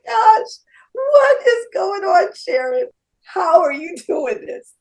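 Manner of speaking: high, slow, loud exasperated cry; hammed-up slow shout, pitched high; frantic shout. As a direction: yell it out in disbelief. Frantic retold outburst.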